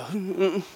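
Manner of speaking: imitated reluctant "mm" noises; mock wordless squirming; shrivelling reluctant hum. Students asked to do the talking, mock reluctant hums. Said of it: "And they all shrivel".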